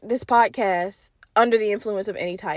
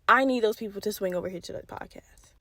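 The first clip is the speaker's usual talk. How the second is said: whisper; 7 dB quieter than usual. Acted. Whispered aside to listeners.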